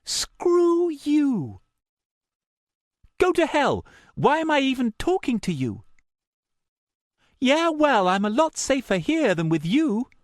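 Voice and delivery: loud, contemptuous female voice; angry. A narrator's reading. Meredith telling off the caller, loud and contemptuous. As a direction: spit out the dismissal. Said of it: "only barely keeping her voice down".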